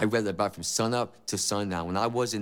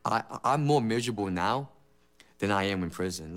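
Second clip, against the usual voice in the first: despairing; 4 semitones lower than usual. Retold or imitated. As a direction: let the words sink, worn out. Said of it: "I'm like".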